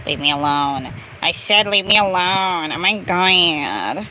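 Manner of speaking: low, restrained exasperation; low-pitched grumble of annoyance; fed up. Real, not acted. Fed up, first restrained take.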